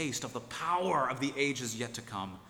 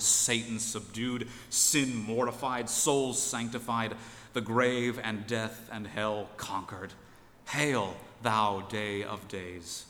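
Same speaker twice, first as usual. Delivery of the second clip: put-on slow, louder proclamation of an old text; solemn reading; 3 dB louder than usual. The preacher reading Swinnock's praise of the Lord's Day, solemn and slow. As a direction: declaim it like a Puritan hymn of praise. Reads Swinnock's hymn to the Sabbath.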